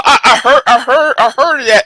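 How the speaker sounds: talking through laughter; laughing. Real, not acted. Streamer laughing as he recalls the video. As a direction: laugh while getting it out.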